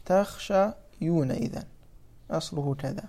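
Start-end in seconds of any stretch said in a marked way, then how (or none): 0.1-1.3 "تخشيون" said slowly with a clear ya, taxshayuna; slow root form demo. Shown as a demonstration. Teacher showing students the original form, slow. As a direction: draw out "تخشيون" so the ya is heard. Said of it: "مفهوم".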